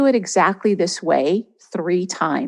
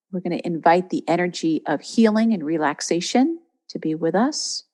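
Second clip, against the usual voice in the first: calm guiding voice with long pauses; guided meditation. Real, not acted. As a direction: ease them gently into a receptive state. Leads a guided visualisation.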